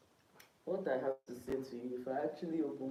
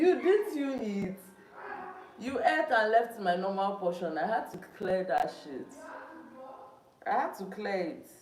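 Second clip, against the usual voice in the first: loud, raised-pitch accusation; real angry shouting; 7 semitones higher, 10 dB louder than usual. Real, not acted. Streamer accusing housemate over leftover food, angry shouting. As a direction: have it out at full volume.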